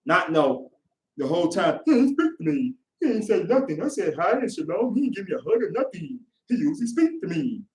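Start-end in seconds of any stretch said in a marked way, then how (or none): 1.9-7.6 whiny. Retold or imitated. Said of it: "Yes, that's how you sound".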